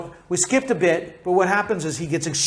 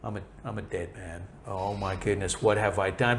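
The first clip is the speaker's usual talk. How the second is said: much lower and softer, quick hushed panic; mock panic; 8 semitones lower, 8 dB quieter, faster than usual. Isaac hearing the truth, hushed hammed-up panic, fast. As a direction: play Isaac whispering to himself that he's doomed. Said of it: "he was probably like".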